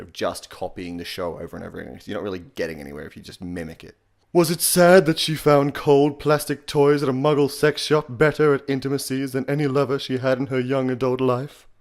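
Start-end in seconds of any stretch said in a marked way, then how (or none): 4.3-11.7 breathy English villain reading, ending in a chuckle; Maximilian Pegasus. Shown as a demonstration. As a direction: read aloud in a raised, airy villain voice. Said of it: "as Maximilian Pegasus for you guys".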